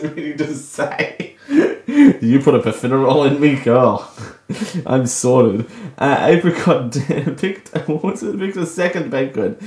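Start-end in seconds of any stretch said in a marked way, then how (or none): 1.5-4.8 saying it through real laughter; laughing. Real, not acted. Redoing her blurted line while cracking up laughing. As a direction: giggle through the whole line.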